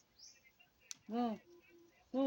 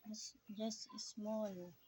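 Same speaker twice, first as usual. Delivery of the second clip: soft slow whisper; 7 dB quieter, much slower than usual. Real, not acted. Mother reassures child softly.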